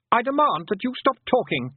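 high, petulant demand; imperious boy. A narrator's reading. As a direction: demand it like a spoilt lordling.

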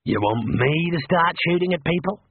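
a sarcastic copy of Rincewind's fuss; mocking echo. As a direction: parrot his panicked question back at him. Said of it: "said Mad".

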